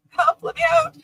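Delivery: high squeaky mock plea; squeaky cry for help. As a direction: play the trapped figure, way up high. Voicing the figure's sign.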